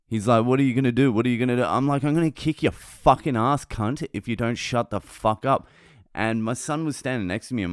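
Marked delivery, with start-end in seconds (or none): 0.4-1.6 louder, higher mock challenge; retold taunt. Driver taunting in acted quarrel. 2.0-5.7 heated threat, starting high; retold angry threat. Acted threat back at driver.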